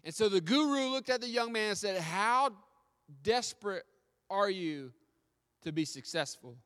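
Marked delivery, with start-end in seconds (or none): 2.0-6.6 loud, high, broken into punched chunks; forceful challenge. Retold or imitated. Guru confronting the young man in the ocean, forceful challenge. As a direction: hammer out the question with pauses, easing at the end.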